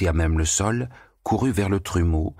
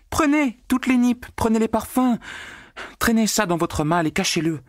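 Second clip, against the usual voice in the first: shouting gleefully. A narrator's reading. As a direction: fling the orders out joyfully. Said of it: "criait Marguerite".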